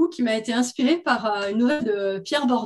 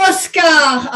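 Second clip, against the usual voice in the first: loud, raised indignant bark; 4 semitones higher, 8 dB louder than usual. Acted. Teenage daughter jumping up at her mother, barking. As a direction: bark the name as a correction. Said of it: "aboya l'adolescente en se levant d'un bond".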